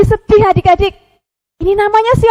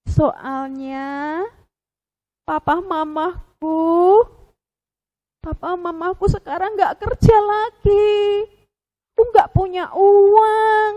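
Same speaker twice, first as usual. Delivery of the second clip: sad penguin; 3 semitones higher than usual. Acted. Penguin explains parents lost jobs.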